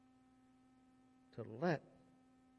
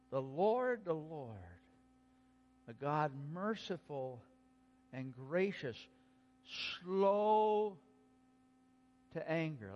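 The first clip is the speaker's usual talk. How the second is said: strength and tenderness. Shown as a demonstration. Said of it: "a strength and tenderness in what God said".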